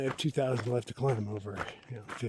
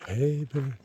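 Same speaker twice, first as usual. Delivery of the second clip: higher, louder bear call; scaring off a bear; 6 semitones higher, 6 dB louder than usual. Real, not acted. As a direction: shout it out to scare a bear. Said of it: "Bear call".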